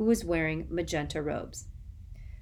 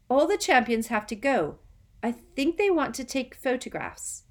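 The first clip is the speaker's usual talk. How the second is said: higher, hurried anxious explaining; nervous eager boy; 8 semitones higher, 5 dB louder than usual. Acted. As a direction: rush to explain, worried.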